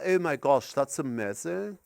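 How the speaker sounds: understated middle-class English accent; attempted middle-class English accent. Shown as a demonstration. Canadian comic attempting to fit in, understated middle-class English accent. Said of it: "my attempt at doing a middle-class English accent".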